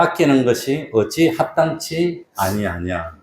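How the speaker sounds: slow, measured verse reading; congregational scripture reading. Real, not acted. Preacher leading the congregation in the closing verse, slow measured reading. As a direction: draw the phrases out for group reading.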